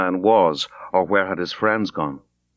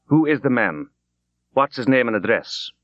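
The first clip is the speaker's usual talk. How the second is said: a lightly done provincial Irish constable, suspicious; suspicious provincial Irish accent; 3 semitones higher than usual. Acted. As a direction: question him with a country Irish twang, wary. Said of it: "in a suspicious provincial accent".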